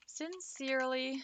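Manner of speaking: playfully formal, unhurried; mock-formal sign-off. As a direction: draw it out like a lofty letter closing. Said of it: "It's so formal".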